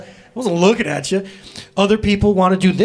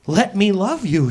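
tender plea; 3 semitones higher, slower than usual. Retold or imitated. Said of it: "says God".

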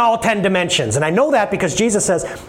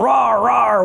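mock lion roar; 4 semitones higher than usual. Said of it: "roars around".

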